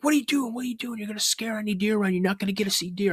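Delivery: high, rushed exasperated dad; rapid-fire mock scolding, pitched high; retold scolding. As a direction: imitate a dad fussing at his kid. Dad scolds screaming kid, retold.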